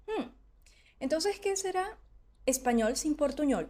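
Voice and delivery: puzzled inner thought. Retold or imitated. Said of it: "allí es donde yo pienso".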